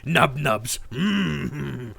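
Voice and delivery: gleeful goblin anticipating dinner; hammed-up hungry goblin, loud at the end. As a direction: chuckle and hum over food like a goblin. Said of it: "the goblin voice line be for".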